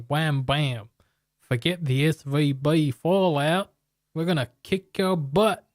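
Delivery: hammed-up tough American accent that slides toward Aussie; bad American accent. Trader voicing the Fed taunting markets, bad American accent. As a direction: ham up a cocky American taunting the markets, badly. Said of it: "I think I was trying to be American".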